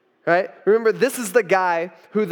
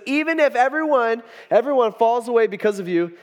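high, emphatic vow; earnest protest; 4 semitones higher than usual. Acted. Peter answering Jesus' prediction, emphatically protesting. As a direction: insist on your loyalty.

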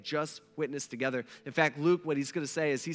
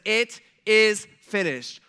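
loud cry; 4 semitones higher, 7 dB louder, much slower than usual. Acted. Jesus' cry from the cross.

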